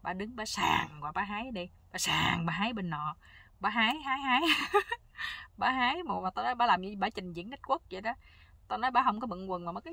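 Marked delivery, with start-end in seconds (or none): 4.5-5.5 een korte lach, veel hoger; hoge lach. Real, not acted. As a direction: lach het hoog en hard uit. Narrator laughs at the scene.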